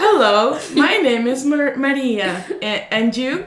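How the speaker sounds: put-on loud, halting learner English in a Spanish accent; beginner English accent. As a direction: imitate a kid's proud Spanish-accented English. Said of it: "that's how we sounded".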